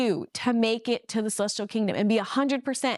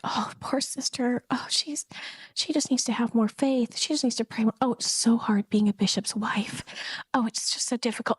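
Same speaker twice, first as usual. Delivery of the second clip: hushed, partly whispered sympathy; pitying. Retold or imitated. Women commenting on the bishop's wife, pitying.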